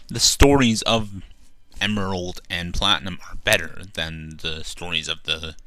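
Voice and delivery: talking while crunching chips; chewing between words. Real, not acted. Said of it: "sorry for the crunching".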